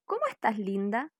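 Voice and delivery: sing-song greeting, cómo soaring; very high cómo. Shown as a demonstration. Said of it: "Por ejemplo".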